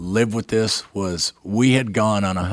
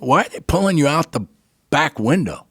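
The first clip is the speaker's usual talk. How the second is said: higher and louder, listing the injuries in disbelief; yelling at his buddy for scaring him; exasperated scolding; 6 semitones higher, 3 dB louder than usual. Retold or imitated. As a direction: scold him like a worried friend.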